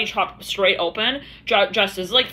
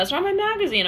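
squeaky high mock denial; 10 semitones higher than usual. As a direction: toss it off way up high, disowning it. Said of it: "I'm hearing that".

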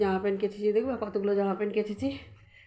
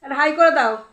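slow coaxing warning; 6 semitones higher, 8 dB louder, slower than usual. Real, not acted. Warning a toddler. (বাচ্চাকে ধীরে আদুরে সাবধান করা)

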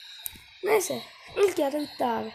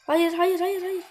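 rapid, raised cries of dismay; alarmed protest; 4 semitones higher, 5 dB louder, slower than usual. Real, not acted. Gamer watching a good attack collapse, alarmed protest. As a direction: blurt it out as it goes wrong.

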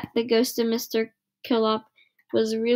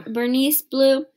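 mild sing-song yell; 3 semitones higher, 3 dB louder, slower than usual. Acted. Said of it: "yelled Nancy".

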